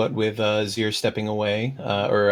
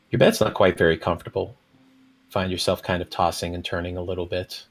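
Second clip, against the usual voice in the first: scene narration; 3 semitones lower than usual. A narrator's reading. Game master's scene setting.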